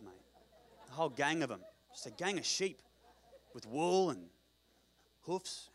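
matey Australian yarn-spinning; Australian accent. Acted. One-legged man describes a gang of sheep, Australian accent. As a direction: tell it as an Australian bloke outside the pub. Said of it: "that's an Australian accent".

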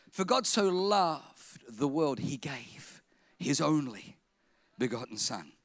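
reverent scripture reading. Acted. Pastor quoting John three sixteen, slow and reverent. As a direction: recite it slowly, with reverence. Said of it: "John three sixteen".

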